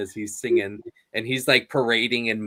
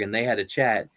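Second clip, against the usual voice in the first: normal talking voice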